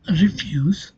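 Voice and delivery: "refuse" stressed on "fuse"; light "re", weighted "fuse" in "refuse"; stress on second syllable. Shown as a demonstration. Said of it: "the stress falls on the second syllable".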